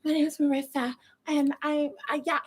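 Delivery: mock soft-spoken girl introducing herself; hesitant, breath-light put-on girly voice. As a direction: imitate a tiny, whispery feminine voice. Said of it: "with a soft voice like that".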